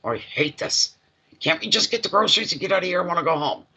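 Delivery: rushed, whiny retold complaint; complaining son. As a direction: imitate an impatient kid griping. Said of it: "used to complain the most".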